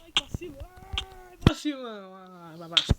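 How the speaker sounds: whiny junkie voice. Pretend. Whining junkie voice.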